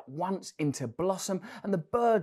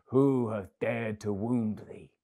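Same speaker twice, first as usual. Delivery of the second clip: slow, weighty outcry of a grieving giant; crying out in anger; 3 semitones lower, slower than usual. Acted. Old giant to the wounded child, slow angry outcry. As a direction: drag out each word in outrage. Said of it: "cried the giant".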